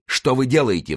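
high, startled question; alarmed cry. A narrator's reading. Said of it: "вскричал Д'Артаньян". (встревоженный высокий возглас)

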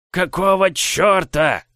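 slow, high squeaky giant voice; a hulking giant who squeaks. Acted. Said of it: "своим странным песклявым голосом".

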